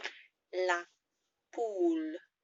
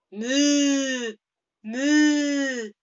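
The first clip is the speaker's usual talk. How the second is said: high, loud French moo; French-accented moo; 8 semitones higher, 11 dB louder than usual. Shown as a demonstration. Teacher mooing with a French accent. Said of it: "moo with a French accent".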